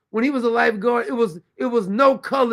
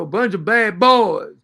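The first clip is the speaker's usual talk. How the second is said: slow, a bit louder mock of his street voice; mocking Biden's talk; 5 dB louder than usual. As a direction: drag the words out as if talking down. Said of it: "He even changed the way he talked".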